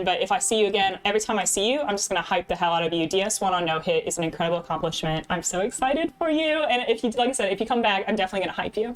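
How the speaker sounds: put-on British accent, keen; bad British accent. Streamer promising to hype Layla, bad British accent. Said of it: "throw some bad British accent at y'all".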